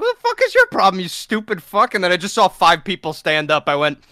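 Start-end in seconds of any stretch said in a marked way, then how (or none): 0.0-1.9 pitched-up retort, mock indignant; mock angry retort. Retelling the bar fight, a mock angry retort to the guy. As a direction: throw his question back at him, hammed up.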